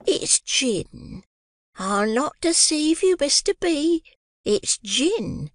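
high, slow gushing landlady voice; affected joy, very high and drawn out; gushing Mrs Mann. A narrator's reading. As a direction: overdo the delight, sugary and shrill-high.

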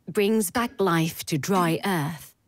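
slow, measured verse reading; poem recitation. Acted. Narrator opens with Pentti Lyytinen's poem On Consensus, slow recitation. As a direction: recite it line by line, unhurried, with pauses.

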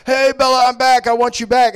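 hammed-up lovestruck boyfriend bursting back in; eager Edward. Edward greeting Bella on his return, mock-eager and loud.

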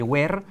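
"where" with the final R sounded Spanish-style; learner's R. Shown as a demonstration. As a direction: say "where" as "wer", pronouncing the R. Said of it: "la R va a decir".

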